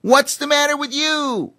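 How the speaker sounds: high cheeky chimpanzee; boastful little chimp, bouncy; squeaky chimp voice. A narrator's reading.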